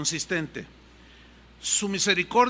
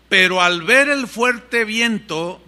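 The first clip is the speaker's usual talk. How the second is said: emphatic reading; 7 dB louder, slower than usual. Acted. Preacher reading verse emphatically.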